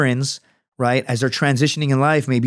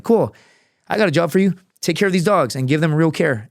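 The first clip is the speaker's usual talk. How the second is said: upbeat offer; 4 semitones higher than usual. Retold or imitated. Pitching job to struggling veteran.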